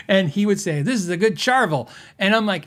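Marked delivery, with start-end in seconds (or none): 0.8-1.9 "Charvel" said CHAR-vuhl, imitating him; "Charvel" with weak second syllable; customer's odd pronunciation. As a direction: mimic him saying "Charvel" with a hard ch. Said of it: "he called them Charvels".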